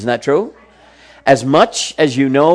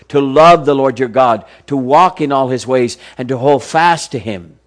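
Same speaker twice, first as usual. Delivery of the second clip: measured, earnest Bible reading; solemn scripture recitation. Acted. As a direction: read the verses with reverent weight.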